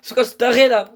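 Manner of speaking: high, loud frantic urging; frantic and scared; panicked shouting. Real, not acted. Chased by attacker.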